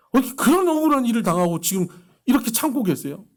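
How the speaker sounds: "어떻게 그런 억울한 일을" shouted high and loud in outrage; angry outburst. Retold or imitated. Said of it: "듣는 저도 화가 나는 거예요". ("그런"에 힘주어 높고 크게 분노하며)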